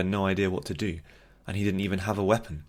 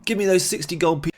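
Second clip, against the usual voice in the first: put-on loud drunken demand; 11 semitones higher, 5 dB louder than usual. Drunk demanding his winnings.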